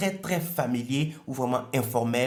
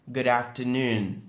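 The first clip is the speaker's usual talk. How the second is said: slow Good afternoon, noon stressed and clear; slower than usual. Shown as a demonstration. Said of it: "l'accentuation est sur noon". (Good afternoon lent, accent sur noon)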